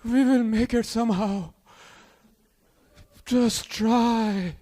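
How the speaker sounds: hushed mock-earnest fatherly advice; Hassan Minhaj's dad. Immigrant father reassuring his son, earnestly. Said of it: "my dad was like".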